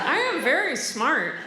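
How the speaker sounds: dry, unconvinced self-praise; sarcastic affirmation. Shown as a demonstration. Comedian saying an affirmation to herself, sarcastic. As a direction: tell yourself, not believing a word. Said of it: "my voice sounds so sarcastic".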